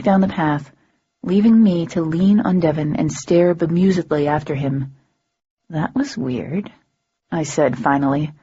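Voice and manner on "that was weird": quiet, slow and puzzled; half to herself, bewildered; bemused. A narrator's reading. Bemused after the cabbie leaves.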